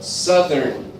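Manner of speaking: southern with SOUTH said as "suth"; sounded "southern", not like south. Shown as a demonstration. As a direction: say "southern" with a short u, like suth-ern. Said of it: "this word here is south".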